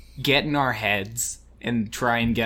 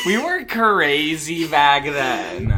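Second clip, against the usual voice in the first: laughing exclamation; 4 semitones higher, 5 dB louder, much slower than usual. Real, not acted. Reminiscing about wild teen night.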